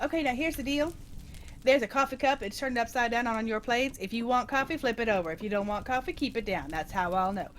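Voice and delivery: lightly imitated Boston waitress accent. Waitress explaining coffee cups to diners, mock Boston accent. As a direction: run through the drill in mock Boston. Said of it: "with the heavy Bostonian accent".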